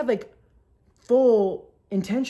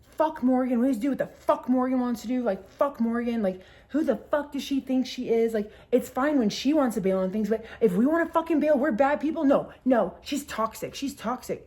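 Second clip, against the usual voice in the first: higher-pitched imitation of drunken ranting; mock indignant rant, pitched up; drunken tirade; 4 semitones higher than usual. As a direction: act out a friend lit up drunk. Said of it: "was drunk and just, like, fucking lit up".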